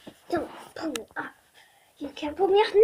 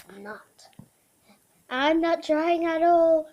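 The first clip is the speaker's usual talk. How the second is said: voicing the dog. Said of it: "saying stuff of what I feel like she thinks".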